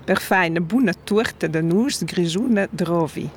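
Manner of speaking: per fa une bonne tourte de noix grigione drovi in Romansh sounds; Romansh sentence. Shown as a demonstration. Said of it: "encore une fois".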